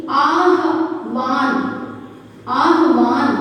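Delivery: very slow, drawn-out word; slow dictation. Shown as a demonstration. Teacher spelling out the correct word, very slowly. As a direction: pull each sound apart for the children. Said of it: "इसकी वर्तनी होगी वो होगी".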